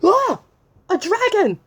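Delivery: high, loud mock scream; hammed-up fright at a dragon. Reader playing scared of the dragon, mock fright.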